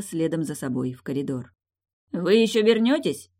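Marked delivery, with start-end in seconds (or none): 2.1-3.3 higher, louder call after them. A narrator's reading. Damien calls after the departing couple, louder. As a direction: toss the question after them. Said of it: "бросил им вслед Дамьен".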